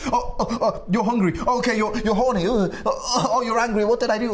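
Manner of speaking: hammed-up panic, high and loud; mock a flustered guy scrambling to react; skittish kid. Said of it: "seem like a skitsy little fucking kid".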